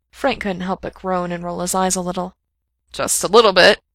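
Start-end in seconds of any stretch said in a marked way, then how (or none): 2.9-3.8 higher than intended. A narrator's reading. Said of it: "coming out a little higher than intended".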